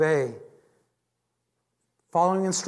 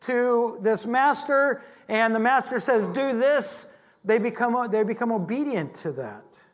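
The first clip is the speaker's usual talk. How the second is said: mock Roman voice; 4 semitones higher than usual. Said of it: "They were like".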